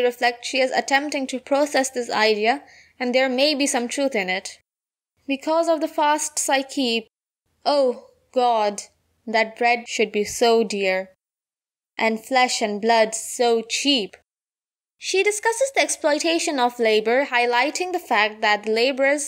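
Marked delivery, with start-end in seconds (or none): 5.3-14.2 slow, deliberate verse reading; poem recitation. Acted. Seamstress laments dear bread and cheap blood, slow recitation. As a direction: linger on each phrase, pausing between lines.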